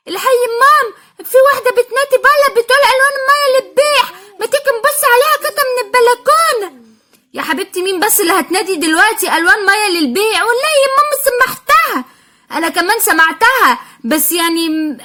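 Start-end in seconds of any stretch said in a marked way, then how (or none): 0.1-12.0 put-on high, quick little-kid voices; child voices. Two little sisters panicking about forgotten school paints, childish voice. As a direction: play the worried small children.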